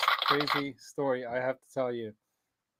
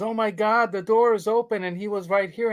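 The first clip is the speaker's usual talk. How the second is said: mock alarm; 7 semitones higher than usual. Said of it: "she exclaims".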